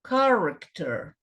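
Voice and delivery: slow, careful "character" with a hard K start; demonstrating pronunciation. Shown as a demonstration. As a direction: model "character" slowly for learners. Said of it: "chama atenção aqui para a palavra".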